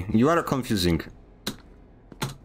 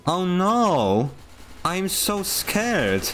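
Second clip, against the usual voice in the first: mock scared; 3 semitones higher, much slower than usual. Mock panic over game danger.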